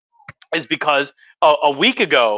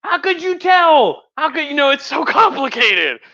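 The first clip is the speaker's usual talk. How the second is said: mock innocent Russians; 11 semitones higher than usual. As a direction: ham up the innocent act in a high voice. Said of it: "it's like".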